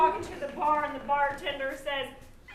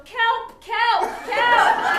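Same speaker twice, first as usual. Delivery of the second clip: raised, loud comic plea; hammed-up distress call; mock cry for help; 5 semitones higher, 6 dB louder, much slower than usual. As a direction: call out as if pretending to need rescue. Biologists cry for help, as pun.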